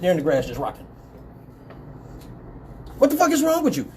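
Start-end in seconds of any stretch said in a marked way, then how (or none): 3.0-3.9 high-pitched baffled demand; retold exasperated question, pitched up; incredulous questioning. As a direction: imitate a cop who cannot believe it. Cop questions the seated man.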